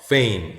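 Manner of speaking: 'fame' with a gliding 에이; letter-name A. Shown as a demonstration. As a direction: say 'fame' with silent e, long A. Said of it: "E가 붙어서 음가가 없죠?". ('fame'을 페임, 에이 소리로)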